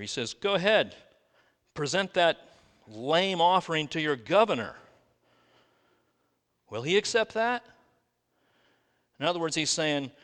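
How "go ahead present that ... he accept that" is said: sarcastic. Acted. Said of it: "He's kinda a little bit sarcastic here".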